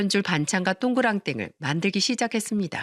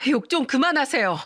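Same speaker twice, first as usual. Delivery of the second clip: shouting; 3 semitones higher than usual. Acted. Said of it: "또 한 번 소리쳤습니다".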